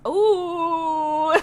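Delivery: high, loud swooning ooh; excited ooh. Real, not acted. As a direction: gush over him. Reacts to another cute guy.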